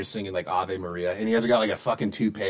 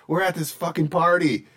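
mocking voice; 8 semitones higher than usual.

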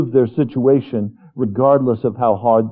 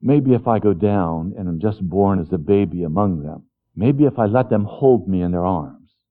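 gentle God voice; 4 semitones lower than usual. Acted. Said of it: "He said".

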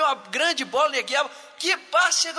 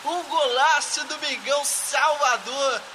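drawn-out, higher goal scream; explosive goal commentary; 5 semitones higher, slower than usual. Pretend. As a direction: stretch the goal call out. Goal shout in mock narration.

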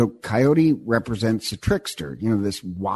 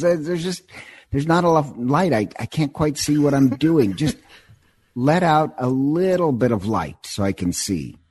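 higher, sly coaxing voice with a little laugh; sly trickster Raven; 4 semitones higher than usual. Retold or imitated. Raven sweet-talks Seagull into releasing light, sly and wheedling. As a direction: play the wheedling trickster bird, pitched up.

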